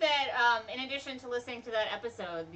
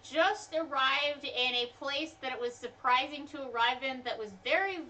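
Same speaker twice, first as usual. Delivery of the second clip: dramatic hinting; 4 semitones higher, slower than usual. Pretend. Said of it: "you don't have to say it like that".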